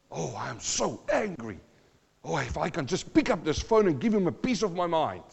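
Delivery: a hint of a fuming churchgoer; mock angry grumble. Preacher voicing a churchgoer stewing in anger, lightly mocking. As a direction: grumble like someone itching to phone and rant. Angry person voiced in sermon.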